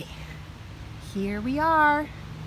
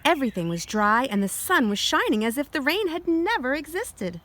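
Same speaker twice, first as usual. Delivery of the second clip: put-on reading to children. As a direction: clear storybook read-aloud. Reads picture book aloud.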